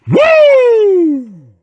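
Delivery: high, loud whoop of glee; excited whoop. Real, not acted. Vlogger whooping before reading his scorecard, loud high whoop. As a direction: let out a sharp celebratory woo.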